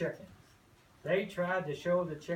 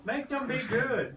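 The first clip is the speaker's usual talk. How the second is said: gruff farmer, pitched up; a grumbling farmer scolding; grumpy farmer voice; 7 semitones higher than usual. Acted. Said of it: "told the animals".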